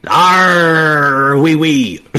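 hammed-up pirate growl with a French twist. Jokey friend hams up a French pirate, growling. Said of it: "I am a French pirate".

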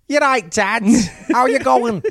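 put-on chirpy northern girl checking on dad; northern accent. Arya greeting her dad, high northern accent. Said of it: "incredible that you can do that so well".

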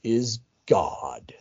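drops to a whisper, slow; hushed awe on the final words. Real, not acted. Solemn point about God's greatness.

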